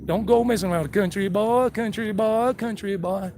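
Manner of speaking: lightly voiced Tennessee country boy; playful touch of country-boy chant; Hillbilly Jim. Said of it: "kinda like Hillbilly Jim from Tennessee".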